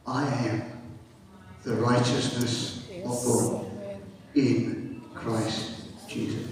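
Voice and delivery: low, soft and spaced out; solemn declaration. Real, not acted. Preacher giving believers their identity in Christ, solemn declaration. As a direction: let each phrase settle quietly.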